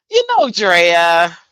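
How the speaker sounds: slow, drawn-out knowing tone; Melissa's slow warning. Retold or imitated. Imitating Melissa warning Drea, slow and drawn out. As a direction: stretch it out like a gentle warning. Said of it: "That's, that's how she said it".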